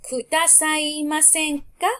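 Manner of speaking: kudasaimasenka drawn out very slowly, syllable by syllable; teacher dictates kudasaimasenka slowly; slow model word. Shown as a demonstration. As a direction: stretch kudasaimasenka so every syllable is heard. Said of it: "verb te form plus".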